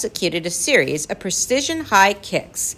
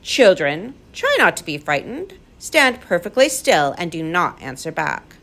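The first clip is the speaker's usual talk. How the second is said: calm. Acted. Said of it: "He spoke calmly over the noise".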